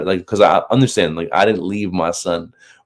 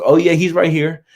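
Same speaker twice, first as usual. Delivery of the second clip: lightly voiced call from the background, higher and louder; first sergeant in background; 11 semitones higher, 5 dB louder than usual. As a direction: pipe up as the sergeant overhearing. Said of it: "the first sergeant in the background's".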